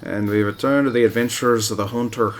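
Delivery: a missed Aussie attempt that drifts toward Irish; accidental Irish accent. Gamer retrying the Aussie intro, slipping into Irish. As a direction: try the Aussie line again but let it slide Irish. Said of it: "Nope, that's Irish".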